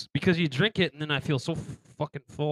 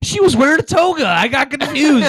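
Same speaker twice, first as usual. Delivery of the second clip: laughing excitement; 11 semitones higher, 7 dB louder than usual. Real, not acted.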